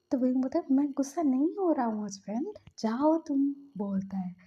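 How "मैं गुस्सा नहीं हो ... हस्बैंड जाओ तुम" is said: mock angry denial. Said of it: "गुस्से में चला जाता है".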